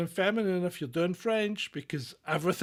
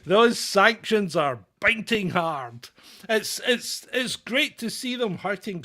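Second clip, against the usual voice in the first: slow, louder mock praise; sarcastic; 3 semitones higher, 6 dB louder, slower than usual. Mocking sanctions for co-host, slow loud sarcasm. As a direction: drip with sarcasm.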